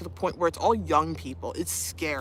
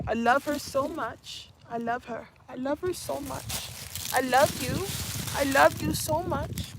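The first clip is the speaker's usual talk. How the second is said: high, soft cooing; 6 semitones higher, 4 dB quieter than usual. Real, not acted. Owner cooing lovingly to her puppy Bo, high and soft. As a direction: gush over the puppy in her lap.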